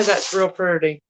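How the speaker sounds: "pretty" said as "purdy"; Southern pronunciation. Real, not acted. Seller echoing her own slip, Southern pronunciation. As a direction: let "pretty" come out as a country "purdy". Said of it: "Why do I talk like that".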